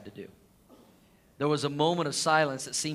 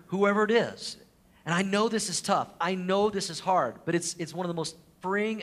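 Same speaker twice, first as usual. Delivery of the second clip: building appeal; 5 semitones higher, 4 dB louder than usual. Real, not acted. Rising sermon appeal.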